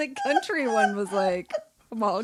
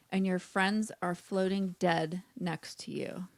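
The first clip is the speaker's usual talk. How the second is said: measured read-aloud, a little lower; prompt reading; 3 semitones lower, 5 dB quieter than usual. A narrator's reading. Co-host reading the writing prompt aloud, measured narration. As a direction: read the story setup evenly, pausing between phrases.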